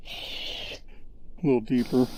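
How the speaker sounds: slow, whispered murmur while concentrating; half-voiced aside, drawn out slowly; too quiet. Real, not acted. Sculptor murmuring to himself at the model, slow whisper. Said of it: "I gotta remember also to talk a little bit louder".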